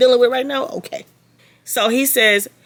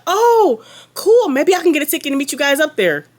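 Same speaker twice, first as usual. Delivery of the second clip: much higher, louder girly mock voice; mocking Brittany; 8 semitones higher, 4 dB louder than usual. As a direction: ham up a sugary fake-sweet girl. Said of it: "I cannot stop mocking this girl".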